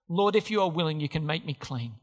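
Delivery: fading into a quiet plea; begging plea. Retold or imitated. Leper begging Jesus.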